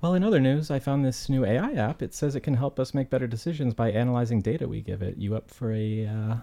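lightly voiced wife; Sophie, plain voice. Sophie pitching the AI app to John, barely voiced. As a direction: pitch the app casually to the husband. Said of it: "I'm dropping my Australian accent".

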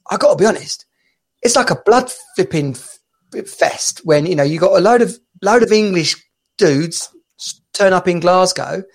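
lightly imitated Scottish caller; attempted Scottish accent. Scottish caller warning English fans off Glasgow, imitated accent. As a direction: give it a playful Scottish lilt. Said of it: "this Scottish guy rang up".

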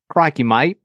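lightly put-on Australian accent, barely shifted; Steve Irwin. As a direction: toss off a quick Australian "Crikey, mate". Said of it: "I just know Steve Irwin".

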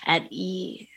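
whispered calm; hushed and easy; soft whisper. Shown as a demonstration. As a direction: breathe it out softly. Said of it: "sing-song tone of a voice that makes you feel calm".

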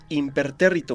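«impertérrito» despacio, sílaba por sílaba; dicho lento. Retold or imitated. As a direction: alarga cada sílaba de «impertérrito». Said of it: "pero lo dijiste lento". («impertérrito» dicho lento)

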